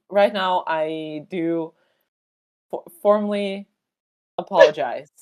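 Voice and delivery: mock formal apology.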